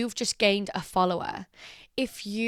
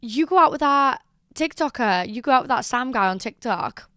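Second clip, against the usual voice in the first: excited fan; 4 semitones higher, 5 dB louder than usual. Retold or imitated. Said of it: "this guy was like".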